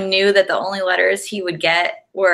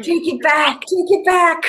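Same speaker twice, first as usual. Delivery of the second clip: laughing, higher plea; 10 semitones higher than usual. Real, not acted. Co-host laughing at the host's threat to her husband, laughing plea. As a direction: beg through laughter.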